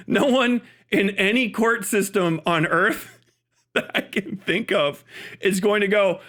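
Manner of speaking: slow, laughter breaking into the sentence; can't keep a straight face; laughing through words. Real, not acted. Laughing while speaking.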